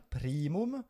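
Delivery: primum stressed on the first syllable, PRI-mum. Shown as a demonstration. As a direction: lean on the start of primum. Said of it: "on accentue sur la première".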